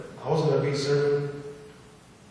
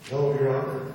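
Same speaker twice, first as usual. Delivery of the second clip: firmer refusal. Retold or imitated. Defendant refusing the judge's question, firm and resolute. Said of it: "that's when God spoke through me".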